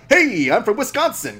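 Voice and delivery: high, slow mock Wisconsin accent; Nick. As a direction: imitate a colleague's drawn-out Wisconsin tone. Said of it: "kind of tone that Nick has".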